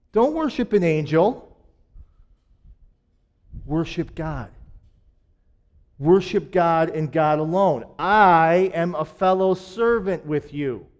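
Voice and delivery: a calm but firm heavenly correction; angel correcting John. Retold or imitated. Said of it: "the angel's like".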